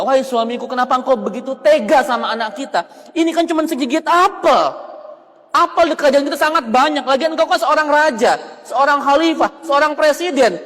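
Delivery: put-on wife pleading for her scolded child, agitated; a bit upset. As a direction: protest to the husband, rising in pitch. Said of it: "agak senewan juga".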